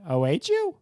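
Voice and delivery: announcer flourish ending on a high note. Real, not acted. Host promoting the hashtag game to listeners, hitting a high note. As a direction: voice lifts high on the last word. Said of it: "Hit kind of a high note there".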